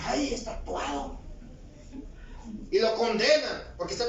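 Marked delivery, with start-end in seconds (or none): 0.0-1.2 slow, scornful sniff at a tattooed man. Retold or imitated. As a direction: say it looking down on him. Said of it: "lo ve con desprecio y dice". (despectivo, lento: ay, es tatuado)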